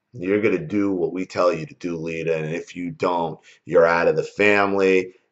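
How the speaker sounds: ordinary delivery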